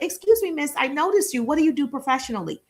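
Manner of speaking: bright, high "Excuse me" to a stranger; polite approach voice. Shown as a demonstration. Coach shows how to greet a woman, polite and high. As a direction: open politely and a bit high. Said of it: "so I'm like".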